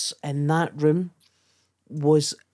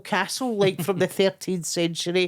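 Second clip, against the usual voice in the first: higher and louder incredulous rant; exasperated retort; 5 semitones higher, 4 dB louder than usual. Retold or imitated. Snapping back at the posh comic about Europe, exasperated. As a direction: let the disbelief spill over.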